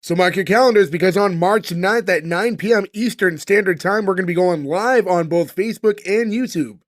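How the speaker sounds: upbeat promo announcement; announcer read. Acted.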